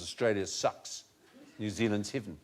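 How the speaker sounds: lightly imitating a New Zealand accent, six said sucks. Host doing the Melbourne graffiti in a light New Zealand accent. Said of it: "which, of course, they would pronounce as".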